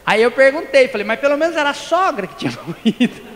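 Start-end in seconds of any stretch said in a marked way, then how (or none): 1.1-3.2 laughing. Real, not acted. Joking retort at wake.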